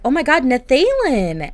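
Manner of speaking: joyful shout of his name; overjoyed wife spotting her husband; excited cry. Acted. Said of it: "And she's like".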